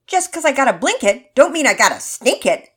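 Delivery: loud pinched-nose nasal voice. Acted. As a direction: keep the nose pinched and hammy. Same pinched-nose joke continues.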